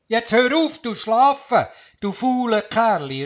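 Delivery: high, loud scolding call. Acted. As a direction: rouse the lazy fox with a shout. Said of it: "ruft der Wurzel".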